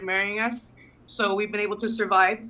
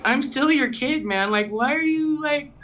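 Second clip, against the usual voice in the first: higher, slow pleading; mock exasperation; 6 semitones higher, slower than usual. Daughter telling dad she is still his kid, slow mock exasperation. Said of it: "I'm like".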